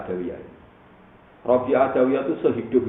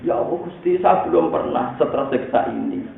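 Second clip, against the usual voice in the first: raised-pitch imitation of a tormented complaint; mock anguished plea; 5 semitones higher than usual. Rabi'ah telling God of her torment, mock anguished. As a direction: plead to God in acted anguish. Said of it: "nangis terseduh-seduh".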